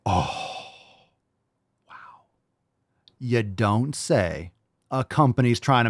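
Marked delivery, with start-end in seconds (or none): 0.1-2.3 breathy whisper of fake awe; whispered mock wow. Real, not acted. Mocking the soap brand with a whispered wow. 3.2-4.5 very slow, deadpan you don't say; slow sarcasm. Real, not acted. Mocking the brand's critics, slow and deadpan.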